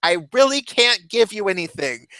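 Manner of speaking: high, firm nurse voice. Retold or imitated. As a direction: insist patiently like a nurse. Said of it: "she's like".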